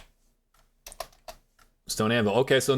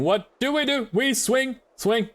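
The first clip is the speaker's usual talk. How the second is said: excited cheer; 8 semitones higher, slower than usual. Acted. Cheering self on while swinging.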